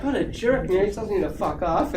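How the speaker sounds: mock indignation, pitched high; retold pissed-off grumble. Employee walking out of the manager's office, mock pissed off. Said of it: "I walk out all pissed off".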